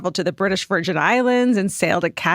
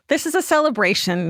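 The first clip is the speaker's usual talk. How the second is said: lightly proclaimed, starting higher; a touch of proclaiming; mild proclamation; 4 semitones higher than usual. A narrator's reading. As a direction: read it as an understated public declaration. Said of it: "he proclaimed".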